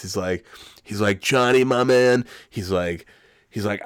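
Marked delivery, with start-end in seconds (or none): 1.2-2.3 louder, drawn-out salesman schmooze; smug grin. Retold or imitated. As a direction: greet him with a big oily smile. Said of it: "big fucking asshole smile on his face".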